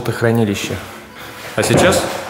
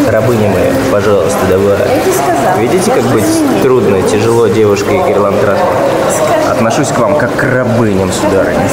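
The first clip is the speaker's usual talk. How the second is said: calling out loud; 2 semitones higher, 5 dB louder than usual. Real, not acted. Calling to her in pool.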